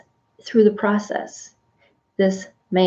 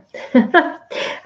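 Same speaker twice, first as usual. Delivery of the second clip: embarrassed laugh; 6 semitones higher than usual. Real, not acted. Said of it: "I get emotional sometimes".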